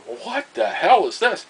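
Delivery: spooked disbelief at a ghostly hint; mock alarmed; shocked. Teller's shocked inner thought.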